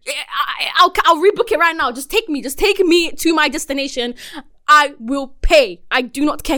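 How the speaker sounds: pleading, slowing to spaced-out words; retold desperation. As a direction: beg the driver, stressing each word. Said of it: "At that point, I was desperate".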